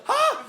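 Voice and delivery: short high whoop; quick crane-like laughing call. Shown as a demonstration. Comedian demonstrates laughing like a bird, short whooping call. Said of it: "like a whooping crane".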